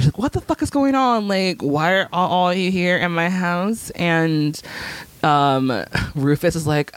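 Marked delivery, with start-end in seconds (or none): 0.2-3.9 imitating a mortified girl, pitch raised at first; mock-mortified outburst, easing off. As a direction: act out appalled disbelief.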